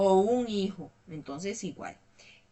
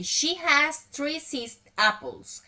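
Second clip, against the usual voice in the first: reading aloud; 6 semitones higher, 4 dB louder, slower than usual. Shown as a demonstration.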